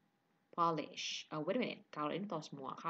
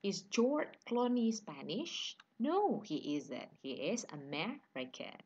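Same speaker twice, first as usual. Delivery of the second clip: slow classroom question and answer; slow model dialogue; 3 semitones higher, 3 dB louder, slower than usual. Shown as a demonstration. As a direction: model each phrase slowly for learners.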